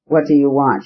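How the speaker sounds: plain reading voice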